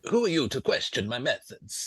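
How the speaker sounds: a faint hint of Italian accent; slightly Italian. Game master voices challenged lanista, slightly Italian accent. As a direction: mostly own voice, slightly Italian colouring. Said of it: "That's gone slightly Italian there".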